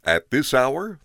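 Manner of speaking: sharp, loud snap; father snapped. A narrator's reading. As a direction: bite the words off in anger. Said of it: "the father snapped".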